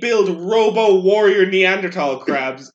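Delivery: laughing, slow. Real, not acted. Laughing rant about mad scientist.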